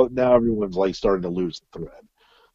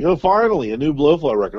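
eager fan; 5 semitones higher than usual. Retold or imitated. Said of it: "it's like".

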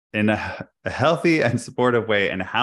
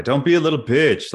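higher, louder sneering tough-guy jab; mocking macho taunt; 7 semitones higher, 6 dB louder than usual. Quoting what men were told, a louder, higher mocking macho taunt. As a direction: mimic the men who told boys not to cry. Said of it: "men were told not to cry".

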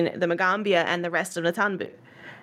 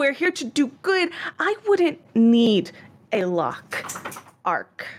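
projecting voice; 4 semitones higher than usual. Acted. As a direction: project it to the whole hall like a show. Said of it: "projecting his voice to, like, everybody".

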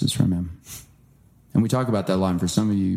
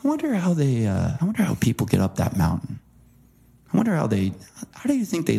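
higher, awed wondering aloud; marvelling; 6 semitones higher than usual. Retold or imitated. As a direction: gaze up at a mountain in wonder. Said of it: "I walk by stuff and I go".

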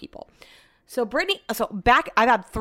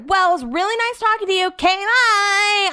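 polite brush-off; 11 semitones higher, 3 dB louder than usual. Retold or imitated. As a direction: chirp your way out of the conversation. Acts out escaping a flirting customer.

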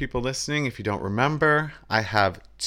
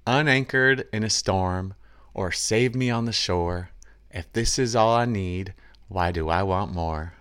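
twangy voice. Acted. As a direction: read the lyric with a hint of country twang. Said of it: "I'm gonna use some, my twangy voice here".

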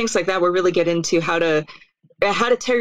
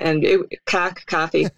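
Boston-New York accent. Shown as a demonstration. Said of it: "Boston, New York accent".

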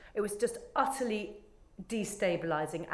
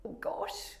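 whispered aside; 6 dB quieter than usual. Retold or imitated. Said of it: "I was like".

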